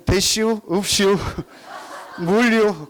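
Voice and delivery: curt Chungcheong country grunts with a laugh; 무뚝뚝한 서산 사투리; Seosan dialect. Retold or imitated. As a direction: clip it like a terse Seosan local. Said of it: "서산은 두 맞으면 끝인데".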